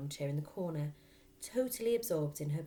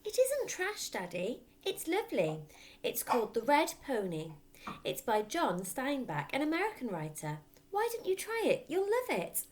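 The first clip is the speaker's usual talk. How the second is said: put-on pleading little girl; 8 semitones higher, 4 dB louder than usual. A narrator's reading. Matilda pleads with her father.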